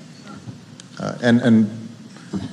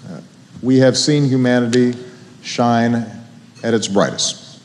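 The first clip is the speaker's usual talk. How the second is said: softer, sombre address; sincere serious close; 4 semitones lower, 4 dB quieter than usual. Real, not acted. President turns to the nation's hard days, softly sincere. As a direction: lower your voice for the hard news.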